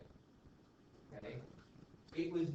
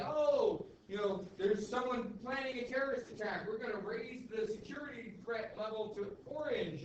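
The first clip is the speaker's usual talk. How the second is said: higher, lightly voiced fake-calm president; mock Bush; 6 semitones higher than usual. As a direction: play the president easing a scare. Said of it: "he would just say".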